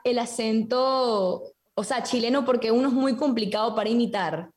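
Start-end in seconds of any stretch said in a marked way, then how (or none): 0.0-1.4 slow, drawn-out admission; hesitant confession. Real, not acted. Guest confessing to the hosts which accent she dislikes, hesitant confession. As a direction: stretch it out, reluctant to say it.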